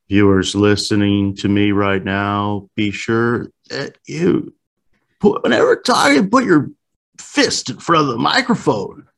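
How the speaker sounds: hamming up a host's daily reminder; mock Joe Rogan announcement. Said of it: "imagining Joe Rogan just opening up a show".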